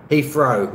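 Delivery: HEATHROW said with an F, "Heefrow"; London-style Heathrow, TH turned to F. Shown as a demonstration. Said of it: "F rather than T H".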